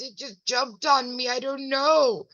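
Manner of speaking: lightly voiced puzzled old lady; imitating grandma. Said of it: "She goes".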